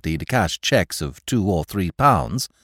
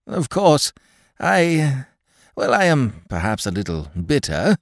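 nervous; 5 semitones higher than usual. Acted. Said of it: "pulling nervously at his beard".

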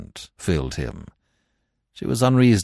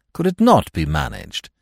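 higher-pitched sour question; 10 semitones higher, 3 dB louder than usual. A narrator's reading. Husband brooding over the refusal, sour. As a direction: demand it resentfully.

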